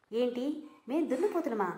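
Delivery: mock-offended gasp of a question; shocked. Friend called a buffalo, shocked and indignant. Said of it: "shock అయ్యాడు".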